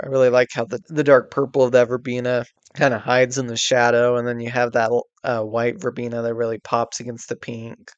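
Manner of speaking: sick, muffled voice; talking with a blocked nose. Real, not acted. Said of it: "sorry if my voice is a little muffled".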